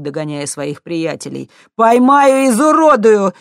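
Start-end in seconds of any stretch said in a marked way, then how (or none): 1.8-3.3 very loud, much higher; furious threat. A narrator's reading. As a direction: yell a threat mid-chase. Thug chasing, threatening. (яростно, очень громко)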